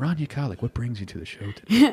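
calm, settled radio host voice. Calming down after a rant, address the guest on the show in a Terry Gross voice. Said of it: "I have to get my Terry Gross voice".

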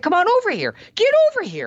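very high, demanding, urgent voice, swooping pitch. Showing how a raised, lengthened call sounds: a little more urgent. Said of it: "a little more urgent or more demanding".

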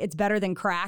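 ordinary talk

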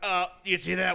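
put-on raspy announcer voice. Imitating a radio announcer doing hockey play-by-play: imitating Scott Farrell. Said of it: "He talks like this".

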